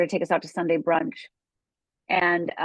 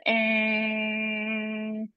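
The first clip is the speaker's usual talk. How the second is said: imitated car horn; 3 semitones higher, 3 dB quieter than usual. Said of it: "all I hear is".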